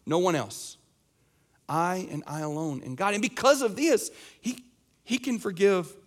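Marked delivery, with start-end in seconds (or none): 0.0-3.1 emphatic insistence. Retold or imitated. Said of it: "he says".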